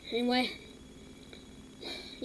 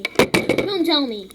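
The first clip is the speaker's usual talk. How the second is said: slow, louder don't-tell-me dread; 2 semitones higher, 6 dB louder, much slower than usual. Real, not acted. Kid fearing the recording stopped, slow dread. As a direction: drag it out in rising panic. Panicking the video ended.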